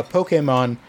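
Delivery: Pokemon said "POH-kay-mon". Real, not acted. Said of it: "I said Pokemon".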